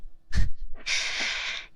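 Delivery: breathy, voiceless laughter; whispered laugh. Real, not acted. Laughing at own boss joke, in a whisper. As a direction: laugh without using the voice.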